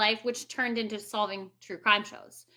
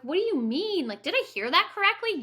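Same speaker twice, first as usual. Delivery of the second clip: slightly higher, disbelieving questions; retold shock; 5 semitones higher than usual. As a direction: replay the moment you couldn't believe your ears. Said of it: "And then it turned into shock".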